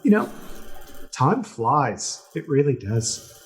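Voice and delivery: high and excitable, tripping over the offer; can't wait to make her his queen; eager pirate king. Acted. Pirate king inviting the crew to stay as pirates, high and eager.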